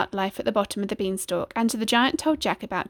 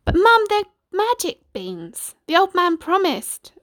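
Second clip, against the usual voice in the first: put-on high, pleading young Jack; arguing boy; 10 semitones higher, 5 dB louder than usual. A narrator's reading. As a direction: plead the case as an eager boy. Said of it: "argued Jack".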